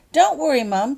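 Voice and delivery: loud high call to Mum. Acted. Holly calls to her mother getting into the car, loud and high. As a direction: reassure her from across the yard. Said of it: "called out Holly".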